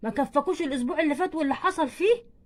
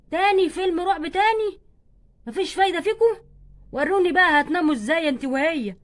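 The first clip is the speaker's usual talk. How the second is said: angry scolding; 2 semitones higher, 4 dB louder than usual. Acted. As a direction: scold the girls for disobeying. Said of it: "بزعق لان بناتك". (توبيخ أب متضايق)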